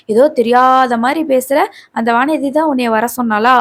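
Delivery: lightly voiced angry accusation; retold rant. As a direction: act out an accusing parent, drawing out the first words slowly. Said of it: "வாய்க்கு வந்தபடியெல்லாம் பேசிட்டு இருக்கிறாங்க".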